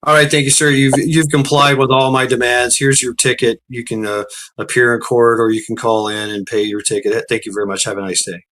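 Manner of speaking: lightly imitated formal trooper; suddenly courteous officer. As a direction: rattle off the polite ticket speech. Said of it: "he's changed his demeanor to".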